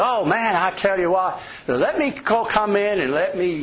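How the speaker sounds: a hint of the pushy salesman begging in; pushy salesman again. Rival salesman pressing to come in, lightly voiced. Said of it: "the guy says".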